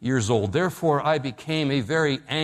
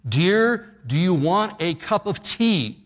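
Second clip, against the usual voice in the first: mock shout; 3 semitones higher, slower than usual. Husband calling to his wife from the kitchen, mock shout. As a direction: call out across the house to a deaf wife. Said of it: "he shouts from the kitchen".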